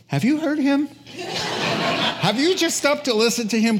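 high-pitched incredulous questions with a laugh; awed underling, played comically; retold amazement. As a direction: plead wide-eyed wonder, voice up. Guards' retold amazed reply.

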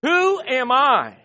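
loud, slow proclamation, phrase by phrase; big drawn-out OH, then measured, forceful phrases; leading a recitation. Shown as a demonstration. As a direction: lead the congregation in a booming chant. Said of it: "let's say all three together".

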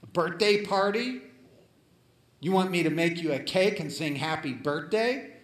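mimicking a nasty put-down; nasty retort. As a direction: sneer it back like a scornful friend. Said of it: "in a nasty tone".

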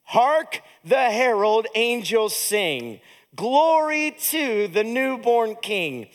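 slow, measured hymn verse spoken aloud; congregational recitation. Shown as a demonstration. Pastor leading the congregation through the first stanzas, slow recitation. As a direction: draw out each line so others can join in. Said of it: "Say it with me, these first four stanzas".

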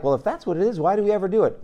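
imitated listener. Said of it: "And you're like".

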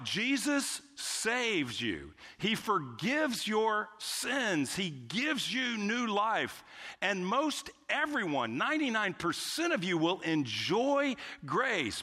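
slow, lilting sales pitch; mock commercial promise. Parody of drug commercial's promises.

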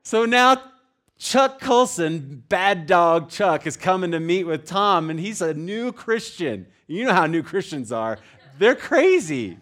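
very high and loud, drawn-out words; hyped-up storytelling. Real, not acted. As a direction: whoop up the comic build-up. Hyped build-up of comic story.

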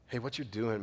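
soft, gentle warning; said in love. Retold or imitated. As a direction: ease into it softly, like a caring friend. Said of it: "if they do it in love".

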